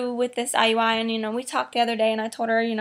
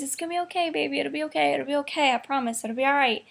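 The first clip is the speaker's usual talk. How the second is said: soothing reassurance; 2 semitones higher, 3 dB quieter, faster than usual. Retold or imitated. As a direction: imitate someone tenderly consoling a friend. Retelling coworker comforting her with hug.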